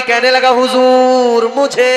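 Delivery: loud, ringing sermon storytelling; full-voiced preacher narration; preaching. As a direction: preach the tale out to the crowd.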